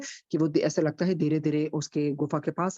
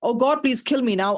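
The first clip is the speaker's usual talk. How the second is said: desperate plea; 5 semitones higher, 5 dB louder, much slower than usual. Acted. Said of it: "uh, I'm sorry".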